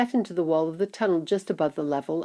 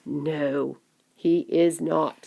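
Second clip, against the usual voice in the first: lower, measured denial; calm grandfather; 3 semitones lower, much slower than usual. Acted. Grandfather calmly contradicts the shouting.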